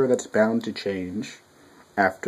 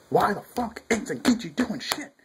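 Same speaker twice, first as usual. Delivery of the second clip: high, whiny impression of complaining fans; mock the fans who whine about Zenkichi; mocking annoyed fans; 10 semitones higher than usual. Vlogger mimicking angry readers, high mocking whine. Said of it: "all you people who are pissed off, is like".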